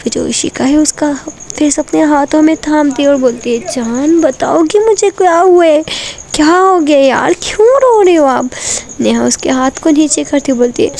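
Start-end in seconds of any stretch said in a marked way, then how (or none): 3.7-8.5 higher, anxious pleading; pleading concern. Acted. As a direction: beg her to say what's wrong. Pleads with crying partner. (रोती प्रेमिका से घबराई हुई विनती)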